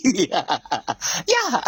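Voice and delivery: laughing through a soft word; low laugh despite the sad subject; real laughing. Real, not acted. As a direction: let a chuckle take over. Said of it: "I'm laughing as if it's funny".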